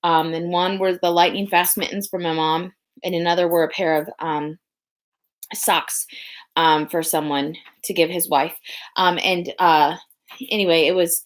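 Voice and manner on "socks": a quick whisper to keep the secret; hushed secret aside. Real, not acted. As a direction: whisper the word so nobody hears. Secret gift for someone's wife.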